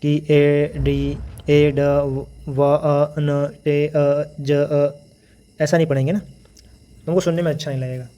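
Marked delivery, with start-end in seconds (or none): 0.3-4.9 each letter sounded out separately, choppy. Shown as a demonstration. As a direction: break the word into single letter sounds like reciting ABC. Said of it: "ऐसे अगर हम तो नहीं पढ़ेंगे ना ABCD की तरह".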